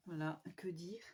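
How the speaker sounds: unvoiced whisper, lost for words; whispered musing. Real, not acted. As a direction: whisper it to yourself, searching. (chuchoté, à court de mots)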